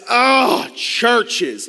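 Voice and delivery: loud drawn-out groan, then the word; imitated dismay. Ann hearing he works with churches, imitated dismay. Ann reacts badly to his job.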